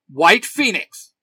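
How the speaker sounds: loud, stretched-out battle cry; forceful, drawn-out hero shout; yelled morph call. A narrator's reading. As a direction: yell it slowly as a transformation call. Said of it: "Tommy yells".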